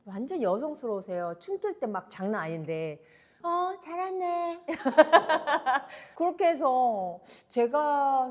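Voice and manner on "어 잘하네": imitating senior. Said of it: "말도 되게 예쁘게 하시거든요".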